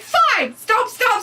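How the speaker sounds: mock tantrum. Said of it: "Ayla's like".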